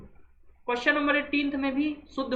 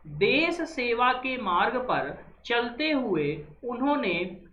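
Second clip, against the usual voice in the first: slow dictation read; slower than usual. Shown as a demonstration. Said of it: "question number fifteen क्या कह रहा है".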